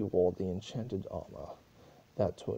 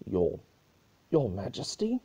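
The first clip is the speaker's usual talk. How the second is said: startled call; 6 dB louder than usual. Acted. Guard startles grieving princess.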